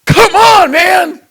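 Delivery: high, loud come on man; hammed-up exasperation, shouted; exasperated shout. Preacher shouting in exasperation at petty complainers. Scolding the audience.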